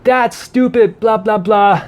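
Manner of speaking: high, dismissive scoff; annoyed grumble. Retold or imitated. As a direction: brush it off as stupid. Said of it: "He's like".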